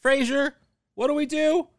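high, loud, gleeful; excited. Real, not acted. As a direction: announce it with big glee. Gleeful question and answer.

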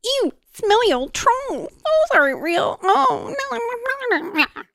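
put-on high, whiny childish squeal; mock it like a fussy little kid; mocking baby voice. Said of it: "that's the kind of baby shit".

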